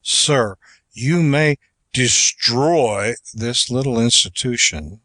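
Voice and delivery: measured courtroom address with emphatic key words; formal oratory. Acted. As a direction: plead it with deliberate pauses before weighty words. Reads Webster's court address as oratory.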